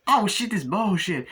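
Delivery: squeaky griping; griping actor impression. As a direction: complain as you climb in. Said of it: "doing the impressions of the, uh, actors".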